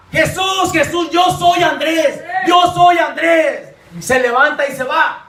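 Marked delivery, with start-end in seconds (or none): 0.1-3.7 mild mock yell at the altar; half-strength quoted cry; retold shouting. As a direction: imitate a man calling out to Jesus. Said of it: "le grita".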